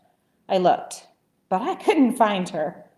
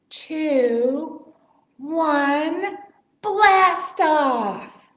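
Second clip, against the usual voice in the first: excited launch; 6 semitones higher, 4 dB louder, much slower than usual. Acted. Countdown climax to launch.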